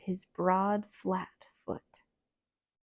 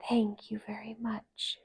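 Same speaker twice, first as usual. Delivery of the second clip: gentle thanks; 6 dB quieter than usual. Acted. Doe thanks the visitors.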